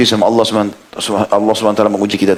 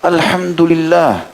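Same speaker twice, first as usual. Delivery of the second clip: calm smiling acceptance; 6 semitones higher, much slower than usual. Acted. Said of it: "Dia tersenyum lalu dia mengatakan".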